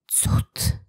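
awed unvoiced whisper. A narrator's reading. Bartosz sees soldiers leave, relieved whisper. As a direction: breathe the word in relief. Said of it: "wyszeptał Bartosz".

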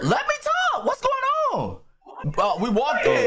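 echoey, far from the mic; talking from a tiled bathroom; echoing bathroom. Real, not acted. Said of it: "you sound like you in a fucking bathroom".

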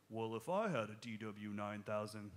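lightly voiced gear-obsessed drummer, slow; mock whining drummer. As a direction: drag it out to mock the excuse. Mocks gear-blaming drummer's excuse.

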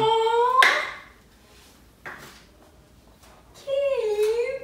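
teary aw. Real, not acted. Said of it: "I did not expect to cry".

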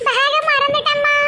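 put-on high, slow giggly girl; crazy giggling. Daughter confessing to mother she forgot her bag, crazy giggling. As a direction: giggle through the words like someone gone daft. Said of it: "கிறுக்கு மாதிரி பேசிட்டு இருக்கா".

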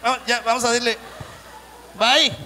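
pulling the waiter along brightly; eager tourist. Retold or imitated. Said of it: "un mexicano que le dijo".

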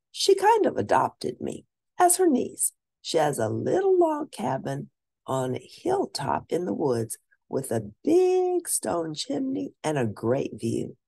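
bright, lively read-aloud voice; story narration. A narrator's reading. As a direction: read it like a picture book to kids. First-person child narrator reading.

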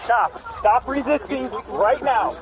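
slow, loud command; shouting. Real, not acted. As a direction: bark it out slowly. Officer struggling with suspect.

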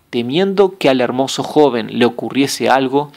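ordinary delivery

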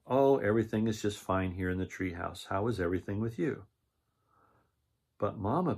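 lively read-aloud narration with character lines; storybook reading. A narrator's reading. Reading a picture book aloud to children, lively storytelling.

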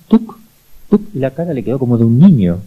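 usual speaking voice

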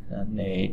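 teacher models "nỉ" softly with a dip; third tone nỉ. Shown as a demonstration. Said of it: "Ta đọc là nỉ dấu hỏi này".

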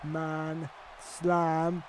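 slow, hushed, word-by-word announcement; slow build-up. Real, not acted. Player announcing his finisher against Lesnar, slow hushed build-up. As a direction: savour each word before the big move.

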